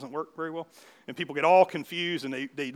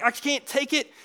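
high-pitched cry of overwhelm; 8 semitones higher than usual. Acted. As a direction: cry it out, at the end of your rope. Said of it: "and then he cried out".

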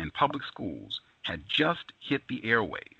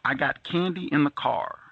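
gravelly man's voice; 6 semitones higher than usual. A narrator's reading. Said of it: "a man's gravelly voice sang out".

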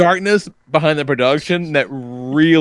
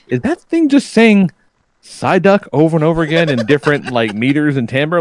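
lightly voiced confused wife, pitch up; puzzled wife; 2 semitones higher than usual. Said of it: "She goes".

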